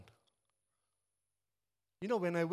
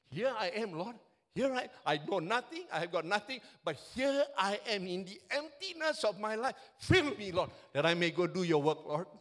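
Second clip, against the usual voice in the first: louder, impassioned prayer of surrender; carried away preaching; 3 semitones higher, 4 dB louder than usual. Real, not acted. Preacher voicing Isaiah's prayer to the Lord, loud and impassioned. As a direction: pour it out as a fervent prayer. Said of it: "I get carried away when I preach".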